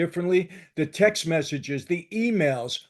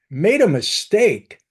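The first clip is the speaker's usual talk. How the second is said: incredulous echo; 2 semitones higher, 7 dB louder, slower than usual. Real, not acted. Scornfully echoes the claim he rejects.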